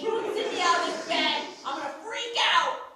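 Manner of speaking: muffled inside a sleeping bag. Acted. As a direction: talk through thick fabric. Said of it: "sorry, you're a little muffled".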